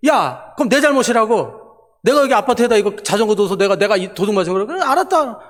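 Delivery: mild re-enacted indignation, pitch rising; angry retort. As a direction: protest the blame as if retelling a quarrel. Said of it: "너무 화가 나더라고요".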